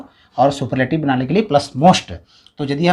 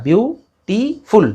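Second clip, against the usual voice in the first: syllable counting; 4 semitones higher, much slower than usual. Shown as a demonstration. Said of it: "जैसे ब्यूटीफुल तीन बार touch कर रहा है ना".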